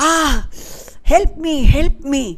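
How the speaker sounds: high, fast, urgent call for help; cry for help. A narrator's reading. Boy in the river calls to his mother, high urgent cry. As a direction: yell to be saved from the crocodile. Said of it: "suddenly he cried".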